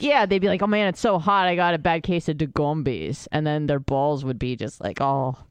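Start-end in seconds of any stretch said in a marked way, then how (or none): 0.6-3.3 put-on lightly done Jamaican accent. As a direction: quote the counselor in a Jamaican accent. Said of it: "with a Jamaican accent".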